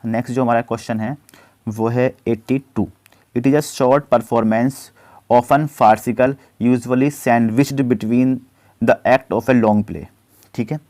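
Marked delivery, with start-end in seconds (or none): 3.3-10.0 slow, deliberate dictation of the question; slow question read-out. Acted. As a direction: read it out word by word for students. Reads quiz question slowly. (धीमी आवाज़ में प्रश्न पढ़ना)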